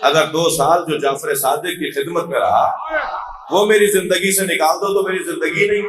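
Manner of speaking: fervent sermon cry; impassioned preaching. Retold or imitated. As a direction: proclaim the imam's words with force. Preacher voicing the imam passionately.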